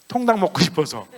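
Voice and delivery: a lightly voiced child, matter-of-fact; a hint of a cheeky kid. Child answers mother. (아이 흉내를 살짝 낸 목소리)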